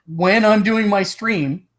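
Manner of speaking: hiccuping mid-sentence; hiccups. Real, not acted. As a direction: hiccups catching the words. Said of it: "God, I got the hiccups".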